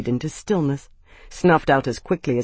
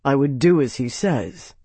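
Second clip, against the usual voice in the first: level tone. Acted. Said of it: "in a level tone".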